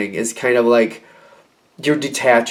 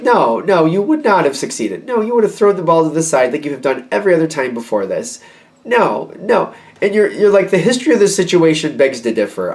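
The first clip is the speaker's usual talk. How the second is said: higher, insistent rebuttal; acted-out exasperated contradiction; indignant refusal; 5 semitones higher than usual. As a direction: shut the excuse down, pitch raised. Acted refusal of the other's excuses.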